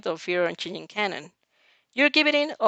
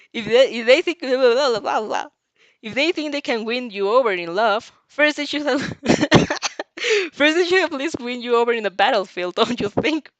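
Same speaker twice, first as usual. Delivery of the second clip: laughing; 3 semitones higher, 5 dB louder than usual. Acted. Inasa voiced, laughing.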